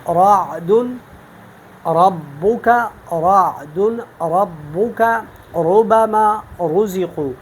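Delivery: رعد ربک ربما رزقوا with a thick, heavy ر, slow; slow tajweed demo of heavy ر. Shown as a demonstration. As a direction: recite ربما slowly, ر full and velarized. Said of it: "مثلاً ہم پڑھتے ہیں".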